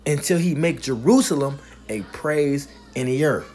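slow, drawn-out preacher's reading; scripture reading. Real, not acted. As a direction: proclaim the verse phrase by phrase. Preacher reads scripture aloud emphatically.

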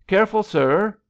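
high, loud warning call. A narrator's reading. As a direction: call a warning across the water. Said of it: "called a life guard".

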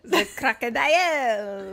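put-on a half-kept French accent on "The crocodile"; mock French accent. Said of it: "There you go".

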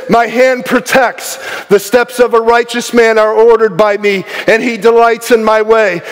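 high-energy sermon, ringing out promises; fervent preaching. Real, not acted. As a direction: preach it with rising conviction and punched key words. Preaches at full force.

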